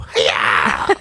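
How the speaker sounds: imitating a movie fighter's yelp; mock karate yell. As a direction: make your own karate sound effect. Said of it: "There was no sound effects. And he would have to go".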